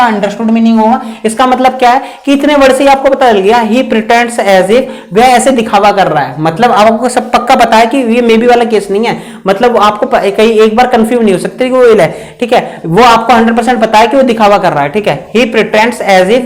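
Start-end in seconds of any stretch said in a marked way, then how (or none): 3.7-4.8 slow dictation. Shown as a demonstration. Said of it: "teacher dictates the example slowly". 15.3-16.4 slow dictation. Shown as a demonstration. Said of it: "teacher dictates the example slowly".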